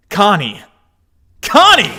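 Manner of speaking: high, loud desperate call. Acted. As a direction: shout her name in fear. Calling out for Connie.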